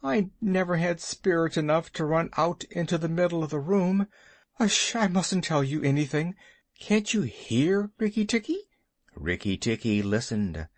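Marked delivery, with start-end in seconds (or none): 0.0-8.7 high, fast, nervous squeak; high anxious muskrat voice; fretful muskrat. Acted. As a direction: rattle it off in a panic. Muskrat frets and listens.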